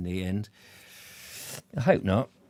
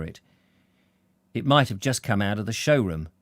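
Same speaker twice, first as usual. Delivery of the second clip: measured audiobook storytelling, firmly projected; storyteller setting the scene; story narration; 4 dB louder than usual. A narrator's reading. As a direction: read the novel aloud with deliberate phrasing. Reads novel narration aloud.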